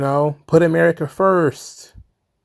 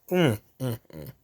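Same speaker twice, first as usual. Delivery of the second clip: choked-up hum; 4 semitones lower, 9 dB quieter than usual. Real, not acted. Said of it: "I choked".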